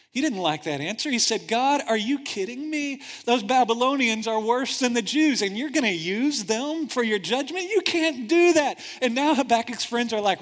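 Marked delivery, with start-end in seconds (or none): 1.5-8.8 loud, high indignant outburst rising to a shout; angry protest. Acted. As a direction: protest hard, build to the last line. Habakkuk angry at God's answer.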